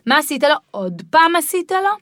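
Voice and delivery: put-on a parent judging the child who hit, scolding; mock scolding parent. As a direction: scold the kid who seems guilty.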